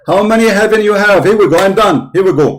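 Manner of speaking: host fed up with the guest dodging his question; heated frustration. Real, not acted. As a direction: snap back at the opponent, fed up. Heated debate, host losing patience.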